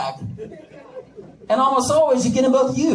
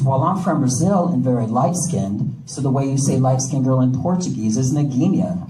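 wife voice; 7 semitones lower than usual. Retold or imitated. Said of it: "She says".

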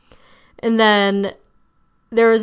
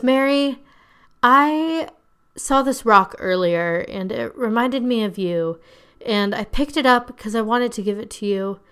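put-on solemn sincerity, pausing for effect; mock dramatic speech; 3 semitones higher than usual. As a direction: imitate an overly earnest girl making a speech. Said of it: "she makes this whole speech to everybody".

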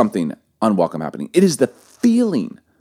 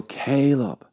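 gentle father; 4 dB quieter than usual. Retold or imitated. Father to his crying seven-year-old, gentle and puzzled. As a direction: ask softly, as to an upset child.

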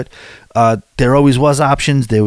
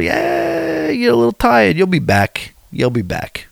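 inner voice; 12 semitones higher than usual. Retold or imitated. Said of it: "I thought".

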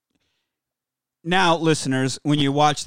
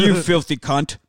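lightly put-on British accent; a hint of London film-star accent; Michael Caine. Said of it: "Michael, Michael Caine".

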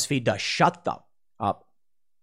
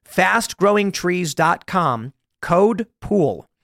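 very slow, deliberate "fast growing trees dot com, code pool"; slow ad tagline; 2 semitones higher, much slower than usual. Acted. Host closing the ad with a slow, spaced-out tagline. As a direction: land the brand name like a closing slogan. Ad sign-off.

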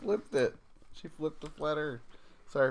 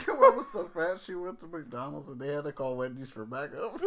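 laughing; 4 dB louder than usual. Real, not acted. Laughing through own joke.

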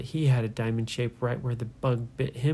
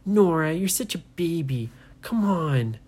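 louder, mocking big brother; teasing; 4 semitones higher, 3 dB louder than usual. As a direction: taunt her as a baby.

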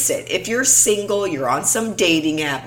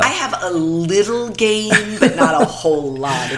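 laughing. Real, not acted. Laughing self-deprecation.

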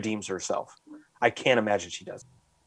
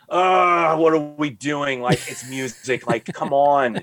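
exasperated groan; 3 semitones higher, 4 dB louder, slower than usual. Retold or imitated. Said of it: "And I'm like".

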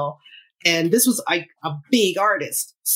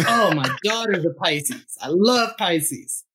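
a famous deep-voiced singer; slower than usual. Retold or imitated. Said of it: "everything you think Barry White would say".

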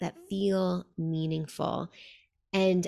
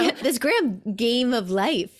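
laughing; 5 semitones higher, 7 dB louder, slower than usual. Real, not acted. Playful echo of grand.

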